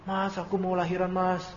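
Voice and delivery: softly voiced wife calling for her husband; a hint of a wife's soft plea; imitated pleading wife. Wife phoning her husband about the birth, mildly pleading. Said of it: "istrinya nelpon".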